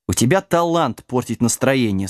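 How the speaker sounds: put-on understated dry reply from an old sorcerer; dry, mildly reproachful remark; dry retort. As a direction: answer drily, without raising the voice. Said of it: "сухо откликнулся старый колдун".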